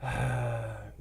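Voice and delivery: soft exhaled sigh; weary sigh. Real, not acted. Builder struggling with stubborn pins, weary sigh.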